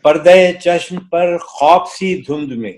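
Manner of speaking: stately nazm recitation. Acted. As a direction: recite the poem with gravity.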